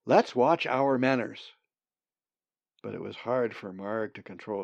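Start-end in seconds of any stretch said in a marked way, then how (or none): 0.1-1.5 scolding. Acted. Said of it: "Marg scolded".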